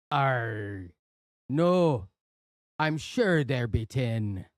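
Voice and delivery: pirate growl, slowed down. Acted. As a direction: deliver the punchline as a pirate. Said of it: "we have to do that joke in a pirate voice".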